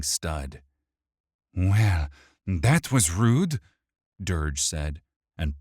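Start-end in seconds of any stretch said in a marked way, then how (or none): 1.5-3.6 sneering, mocking villain. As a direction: taunt him with a smirk. Dirge voiced in story.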